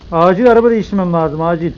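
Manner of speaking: loud, urgent and breathless; urgent shout. Real, not acted. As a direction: yell it as a hurried emergency. Fleeing giant, needs car. (acil, yüksek sesle bağırarak)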